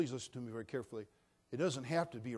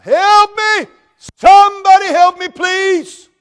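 high, loud screaming for help; desperate cry for help; 26 dB louder, slower than usual. Acted. Falling man screams for help from a branch, high loud cry. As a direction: yell like you're dangling over a cliff.

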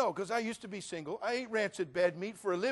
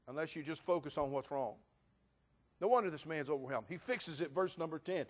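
ordinary talk

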